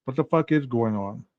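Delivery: soft, lightly voiced bewildered friend; a hint of casual confusion; mock confused friend. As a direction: sound like she is lost. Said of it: "that just sounds like".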